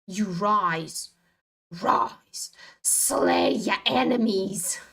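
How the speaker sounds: slow, hissed sorcerer's whisper; mock dark incantation. Trader whispering a dark spell over her trade. Theatrical command to the price.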